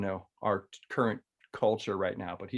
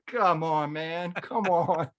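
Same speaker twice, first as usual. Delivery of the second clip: mock pleading; 5 semitones higher, much slower than usual. Embarrassed reply to restaurant outburst.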